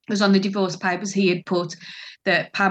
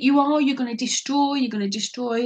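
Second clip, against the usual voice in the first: raised-pitch, insistent repetition; agitated accusation; 5 semitones higher than usual. Retold or imitated. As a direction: imitate an upset mother accusing. Mother's accusation in retold quarrel.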